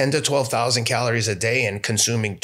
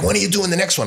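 eager; 10 semitones higher, 4 dB louder, faster than usual. Retold or imitated. Sponsors eagerly ask about next race.

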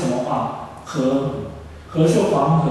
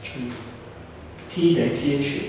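slow spelled-out letters; 7 dB quieter, much slower than usual. Shown as a demonstration. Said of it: "怎么来的".

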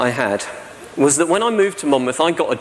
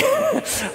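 short laugh. Real, not acted. Laughs after greeting.

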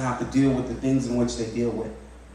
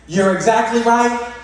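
sincere affirmation; 8 semitones higher, 4 dB louder, slower than usual. Retold or imitated. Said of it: "I looked at her and I said".

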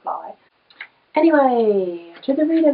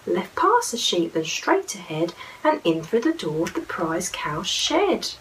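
lively storybook reading, sing-song; reading to children; 2 semitones higher than usual. Acted. Mum reading a picture book aloud to her little boy, lively. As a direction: read it like a bedtime picture book.

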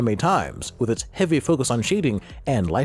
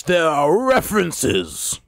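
excited; much slower than usual. Real, not acted. Excited fan reaction.

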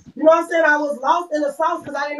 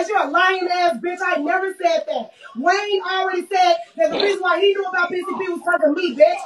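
angry call-out; 3 semitones higher than usual. Real, not acted. Calling out a lying fan.

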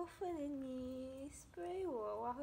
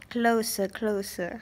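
calling out; 7 semitones lower, 10 dB louder, slower than usual. Real, not acted. Luring the animal nearer.

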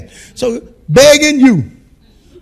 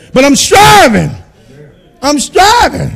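loud shouted declaration; preaching shout; 3 dB louder, slower than usual. Acted. Pastor shouting his struggle to the church. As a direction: proclaim it loudly.

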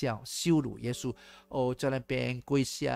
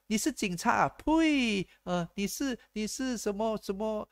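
high mocking contempt with a spit; scornful spitting; 8 semitones higher than usual. Scorner belittling a policeman, high spitting contempt. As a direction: sneer and spit at the title.

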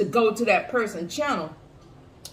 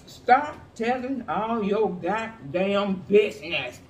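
own spin on quote; 3 semitones lower, much slower than usual. Retold or imitated. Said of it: "They didn't put it like that. I'm putting it like that".

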